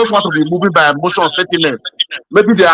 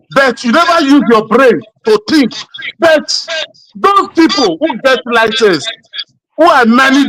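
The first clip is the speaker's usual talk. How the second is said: heated shout; 4 semitones higher, slower than usual. Real, not acted. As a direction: scold him, then burst out. Heated debate, scolding opponent.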